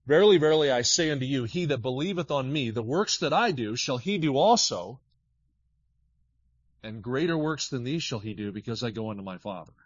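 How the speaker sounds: preached scripture, fading at the end; preached text. Acted. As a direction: proclaim it, then settle down. Reads the text.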